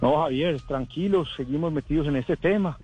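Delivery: muffled behind a face mask; through a face mask. Real, not acted. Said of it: "Está hablando con el tapabocas".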